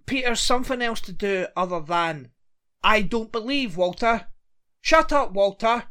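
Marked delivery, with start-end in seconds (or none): 2.8-5.8 mocking whiny son. Mocking Peter's lines to Walter.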